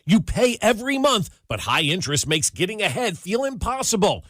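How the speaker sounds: upbeat radio ad read. Acted. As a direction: sell it like a radio spot. Host reads mortgage ad.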